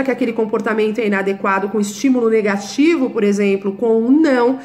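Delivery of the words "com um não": "não" said firm and falling, like scolding a puppy; a stern "não" for the puppy; firm correcting no. Shown as a demonstration. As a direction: snap out the "não" to correct the dog. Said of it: "mostrando pra ele a sua entonação".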